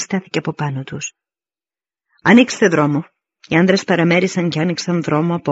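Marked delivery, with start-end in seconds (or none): 2.2-3.0 louder, brisk military order; commanding call. Acted. Commander orders soldiers to clear a path, commanding. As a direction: order the ranks apart in a raised voice.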